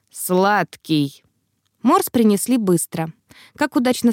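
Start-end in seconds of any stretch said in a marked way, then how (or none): 0.1-1.2 Clay's voice, a grudging one-word reply; lightly voiced sulky patient; sulky answer. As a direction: give in grudgingly. Clay answers sulkily.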